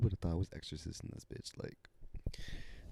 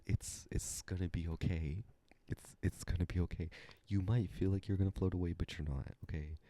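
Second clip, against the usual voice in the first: reassuring. Retold or imitated. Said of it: "fruit snacks eating one oh one".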